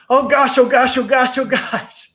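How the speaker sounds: high, loud, breathless gosh; joyful yelling. Acted. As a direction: yell it out, overwhelmed with relief.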